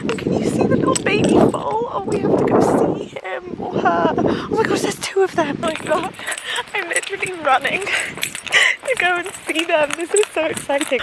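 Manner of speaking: high, giddy squeal of delight; real excitement. Real, not acted. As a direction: gush in a high voice, thrilled. Spots foals, runs to see them.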